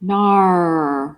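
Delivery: mock Australian "nar"; badly faked Aussie drawn-out vowel; attempted Australian accent. Asked to attempt Australian for a listener, mock Aussie accent. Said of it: "do an Australian accent".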